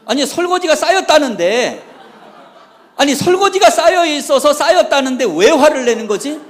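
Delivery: high, loud acted bewilderment; astonished protest. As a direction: protest loudly, utterly baffled by the anger. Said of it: "저는 깜짝 놀랐어요". (깜짝 놀라 억울한 듯 목소리 높여 되묻기)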